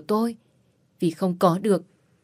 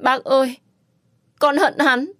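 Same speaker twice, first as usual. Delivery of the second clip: crying out; 6 semitones higher, 3 dB louder than usual. Acted. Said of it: "khóc giống lên".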